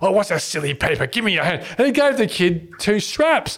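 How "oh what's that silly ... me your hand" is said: put-on quick Irish accent. Retelling how Mick met a kid waving a telegram: imitating Mick's Irish voice. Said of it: "Mick said in his Irish voice".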